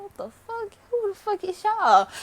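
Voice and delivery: high, cracking, furious retort; outraged yell. Retold or imitated. Teen retelling her comeback to the older girls, high outraged yell. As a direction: snap back in disbelief. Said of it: "I'm like".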